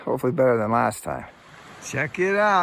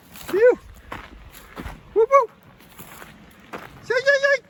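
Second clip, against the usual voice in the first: bear calls. Real, not acted. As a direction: call out to warn bears. Hiker calling out to bears.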